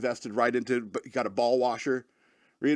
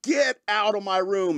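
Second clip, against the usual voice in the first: slow, high, drawn-out angry command; retold angry order; 6 semitones higher, slower than usual. Repeating the order to the dog, slow and angry. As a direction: stretch out each word, mock fury. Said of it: "and you're mad".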